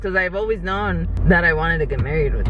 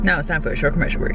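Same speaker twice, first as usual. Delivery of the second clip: news anchor voice; 3 semitones lower, faster than usual. Pretend. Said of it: "the news anchor voice".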